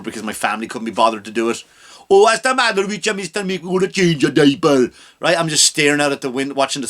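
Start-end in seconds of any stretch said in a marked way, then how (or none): 2.1-4.9 louder, higher, put-on carer voice; caregiver voice. Comic voicing a carer changing his diaper, put-on accent. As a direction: coo at the helpless patient.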